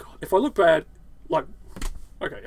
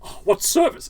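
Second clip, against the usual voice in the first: higher, swooning prissy voice; mock swooning guest; 8 semitones higher than usual. Mocking the guest in the Beast's chair, swooning voice. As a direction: coo it like a spoiled guest. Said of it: "sitting there going".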